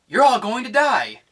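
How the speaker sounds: hammed-up villain line; mock threat. Vlogger mimics Daenerys threatening the khals, hammed-up. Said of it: "y-, y-, you know".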